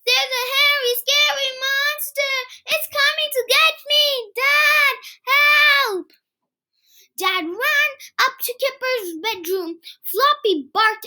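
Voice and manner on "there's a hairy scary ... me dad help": high, sing-song mock panic; fake fright. Kipper pretending a monster is after him. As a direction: ham up the fear, crying for help.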